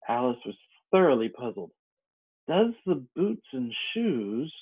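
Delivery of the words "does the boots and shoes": wondering. Acted. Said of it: "she repeated in a wondering tone".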